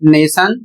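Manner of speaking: नेशन with T said as श; model pronunciation. Shown as a demonstration. Teacher shows T read as श in nation. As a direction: say नेशन with a clear श sound. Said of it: "इसे पढ़ा जाएगा".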